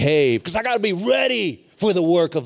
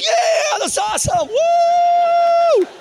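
very high, loud whooping; imitated wild cheering; 7 dB louder, much slower than usual. Students cheering the prodigal's partying, imitated wild cheering. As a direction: whoop it like a rowdy teen crowd.

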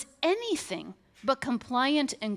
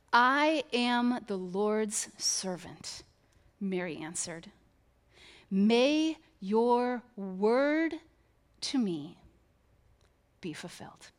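reverent reading; 4 semitones lower, slower than usual. Acted. Reverent reading of Mary's reply.

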